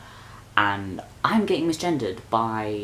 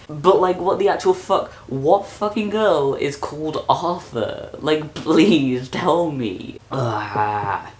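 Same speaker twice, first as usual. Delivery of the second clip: high, loud indignant demand; angry rant; 5 semitones higher, 4 dB louder, slower than usual. Real, not acted. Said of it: "I'm so annoyed".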